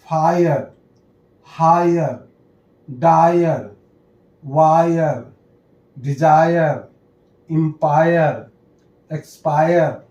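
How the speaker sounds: फायर, हायर, डायर with a drawn "aa-yer" ending; डिजायर and एक्सपायर read singly, i-r-e as "aayar"; -ire ending demo. Shown as a demonstration. Teacher reading examples of the ire rule, pronunciation demo. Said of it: "तो आई का sound".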